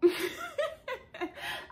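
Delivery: high held-back cough noise; stifled cough imitation. Woman imitating herself holding back cough, strained noise. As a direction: strain to hold in a cough, mock. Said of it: "I was holding back my cough".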